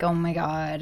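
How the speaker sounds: a hint of drawn-out celebrity drawl; low-key mock socialite drawl; Kourtney Kardashian. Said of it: "drawn out, like, Kourtney Kardashian voice".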